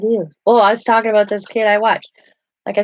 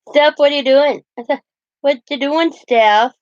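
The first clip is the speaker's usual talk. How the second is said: laughing; 7 semitones higher, 4 dB louder than usual. Real, not acted. Laughing at a cat.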